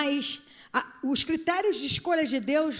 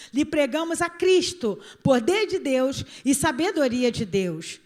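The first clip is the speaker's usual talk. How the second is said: scripture reading. Acted. Reads scripture emphatically.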